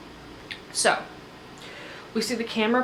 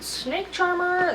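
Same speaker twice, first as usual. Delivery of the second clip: excited cheer; 10 semitones higher, much slower than usual. Retold or imitated. Cheering for Rob.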